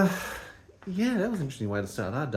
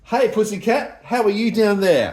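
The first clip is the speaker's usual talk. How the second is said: calling from far away; 7 semitones higher, 5 dB louder, slower than usual. Real, not acted. Calling to the cat below.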